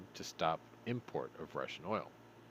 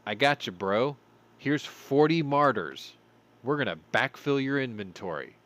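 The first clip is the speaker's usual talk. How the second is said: louder, casual bro reassurance; Germany hammed up as a friendly bro; mock Germany as a bro; 3 semitones higher, 6 dB louder than usual. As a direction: play Germany backing up a buddy. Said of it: "Germany's like".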